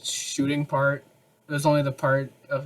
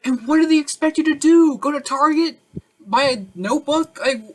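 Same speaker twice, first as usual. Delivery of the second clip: exasperated disbelief; 11 semitones higher, 6 dB louder than usual. Real, not acted. Exasperated rant about ad.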